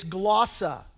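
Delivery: "glossa" pronounced the Greek way; Greek pronunciation. Shown as a demonstration. Preacher teaching the congregation a Greek word, Greek pronunciation of "glossa". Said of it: "that's how you pronounce it in the Greek".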